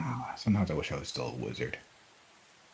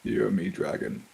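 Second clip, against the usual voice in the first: booming arrogant alien overlord; slower than usual. Acted. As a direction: proclaim it like a conquering overlord. Player declares himself dragon's emperor.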